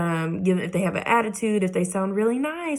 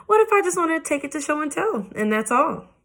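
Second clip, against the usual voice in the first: high, quick, whiny plea; pleading child; 9 semitones higher than usual. Acted. Junie B begging to take tooth to show and tell, whiny. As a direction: beg like a little kid.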